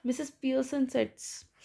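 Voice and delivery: high, pleading no no please; a touch of teary begging; tearful pleading. Retold or imitated. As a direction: beg her to stop, near tears. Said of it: "जो बिल्कुल रोने लग गई".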